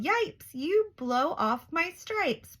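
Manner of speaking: high, slow startled yelp; high, slow startled zebra yell. Acted. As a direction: yelp it out in alarm. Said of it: "The zebra yelled".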